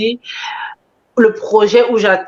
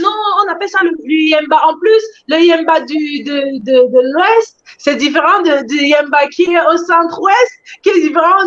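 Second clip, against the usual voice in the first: higher, insistent mock complaint; insistent objection; 5 semitones higher than usual. Viewers correcting the creator on the language's name, insistent mock objection. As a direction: imitate someone nitpicking over a name.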